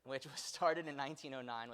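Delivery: firm, assured "Monty Glove Factory"; with confidence. Real, not acted. Lecturer committing to one pronunciation of the name, with confidence. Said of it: "we'll say it with confidence".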